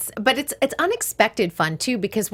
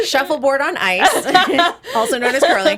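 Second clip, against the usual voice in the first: laughing joke; 4 semitones higher than usual. Real, not acted. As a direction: tease through laughter. Joking aside with laughter.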